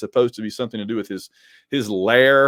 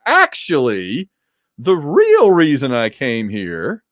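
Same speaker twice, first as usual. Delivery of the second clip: drawn-out stalling; slower than usual. Acted. Imagined Spidey stalling with excuse.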